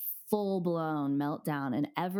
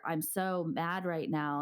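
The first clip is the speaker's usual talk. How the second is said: naming feelings; slower than usual. Shown as a demonstration. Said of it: "sit in your feelings and say".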